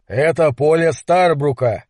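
slow, weighted threat; menacing tone. Acted. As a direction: warn them off the field, slowly. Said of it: "сообщил Гэлен угрожающим тоном". (угрожающе, медленно)

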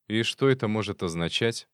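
mock echo of the question; mimicking tone. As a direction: parrot his tone back. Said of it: "в тон ему спросил фольклорист".

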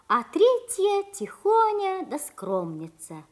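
gentle fairy tale narration; grandma telling fairy tale. A narrator's reading. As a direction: tell it like a grandmother at bedtime.

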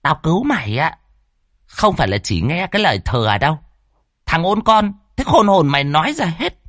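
high, harsh bossy threat; high scolding sorceress threatening. Acted. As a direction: menace the kneeling man. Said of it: "dọa nạt".

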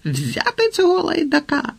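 high, strained shouted command; sharp angry call to seize someone; barked order. A narrator's reading. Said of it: "гарикнув він і повернувся до решти".

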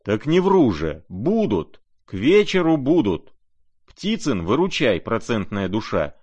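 rapturous, high and loud boasting; rising to a rapture of bidding; ecstatic. A narrator's reading. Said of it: "одушевился вдруг до восторга". (Рогожин в восторге кричит)

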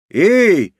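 high indignant cry. A narrator's reading. Норико objects from across the room, indignant. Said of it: "возмутилась уже Норико".

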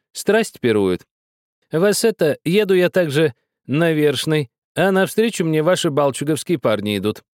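put-on high, pressing old woman's voice; insistent old woman. A narrator's reading. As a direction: insist like a stern grandmother.

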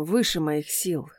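put-on guard confesses to the girl he loves, tender; tender confession. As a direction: confess it gently, almost breaking. Confession of love.

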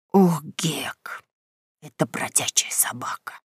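trembling whispered dread; barely audible whisper. Acted. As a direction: breathe it out in terror. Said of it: "едва слышно промолвил".

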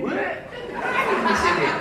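high-pitched, laughing cry of a woman in labour again; mock mother. Same mother seven months later. (ibu hamil lagi yang menjerit dengan suara jauh lebih tinggi sambil tertawa)

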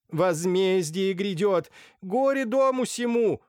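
громко, высоко и медленно возвещает беду; кричи как юродивая пророчица; пророческий крик. Acted. Блаженная пророчит на лестнице. (зловещее пророчество, громко и протяжно)

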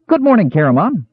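pierce the silence with glee; shrill cheerful kender. A narrator's reading. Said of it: "Earwig shrilled cheerfully".

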